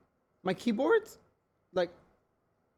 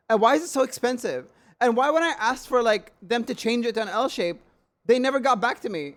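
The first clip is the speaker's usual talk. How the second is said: higher-pitched indignant complaint; indignant rant; 5 semitones higher than usual. Real, not acted. Complaining about the company's silence, indignant. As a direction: rant in rising disbelief.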